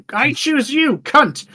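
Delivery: high, hammed-up trainer call; Pokemon trainer. Summoning the princess like a Pokemon, high mock trainer call. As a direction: throw her out like a Pokemon. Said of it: "Summoning her like a Pokemon".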